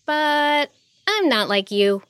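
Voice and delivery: high, slow, measured declaration; merciful heroine. A narrator's reading. Heroine sparing the defeated king, measured. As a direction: say it slowly, lifted and deliberate.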